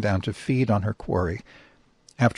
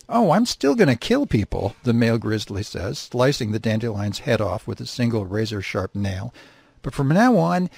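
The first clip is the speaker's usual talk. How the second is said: gleeful menace. Acted. He-bear telling his mate he'll kill for sport, gleeful. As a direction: relish every word of it.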